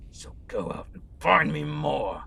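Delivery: dropping the rage to a hissed whisper; menacing whisper. Acted. Villain lord sending soldiers for prisoners, whispered menace. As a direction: breathe the last order out like a threat.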